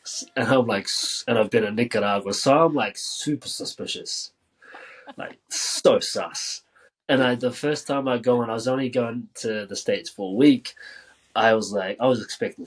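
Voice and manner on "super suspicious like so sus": hushed whisper, drawn out slowly. Real, not acted. Whispering to the host about feeling suspicious. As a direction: whisper it like a secret joke.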